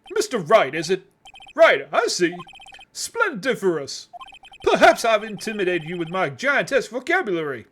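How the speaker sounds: pompous rich Southern businessman; southern oil tycoon voice. Acted. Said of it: "southern U S, um, oil tycoon voice".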